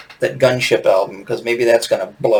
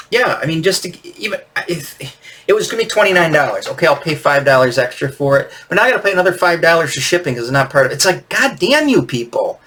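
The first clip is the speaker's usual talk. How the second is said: fast, higher-pitched exasperated rant; annoyed rant; 4 semitones higher than usual. Real, not acted. Fan ranting to viewers about scalper prices, exasperated. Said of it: "I'm gonna get into a rant here".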